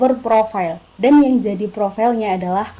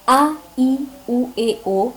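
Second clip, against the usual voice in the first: voiced vowel warm-up; slower than usual. Shown as a demonstration. Voice-over coach showing a warm-up, voiced vowel drill. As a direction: say each vowel separately, drawn out. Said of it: "dengan suara ataupun nggak ada suaranya".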